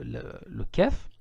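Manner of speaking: kef drawn out slowly; naming the letter kef slowly; slow letter demo. Shown as a demonstration. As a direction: spell out kef carefully. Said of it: "qui est le son K du français".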